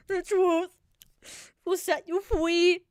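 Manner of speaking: loud, slow grand declaration; mock proclamation. Telling Gus the truth frees you, loud slow mock decree. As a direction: proclaim it like a sermon.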